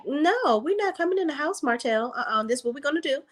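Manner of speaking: mocking the mother's firm no; firm refusal. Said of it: "She was like".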